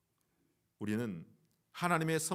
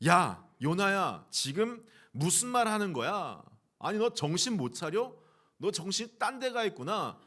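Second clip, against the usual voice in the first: raised, higher scolding voice, drawn-out opening; acted angry scolding; 5 semitones higher, 4 dB louder than usual. Preacher imagining himself as God rebuking Jonah, acted scolding. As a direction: play a parent telling off a child. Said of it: "막 호통치지 않겠습니까?".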